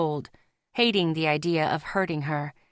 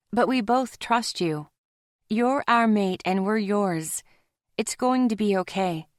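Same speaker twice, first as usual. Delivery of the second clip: Zoe, mate, reassuring; 3 semitones higher than usual. Acted. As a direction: comfort him, a touch lifted.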